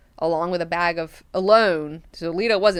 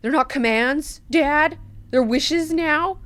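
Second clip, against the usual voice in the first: mocking, climbing higher and higher; smartass; 9 semitones higher, 4 dB louder than usual. Siona mocks her father's wishes, snide rising sarcasm. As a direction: needle him, each question more snide. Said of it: "Siona starts being a smartass".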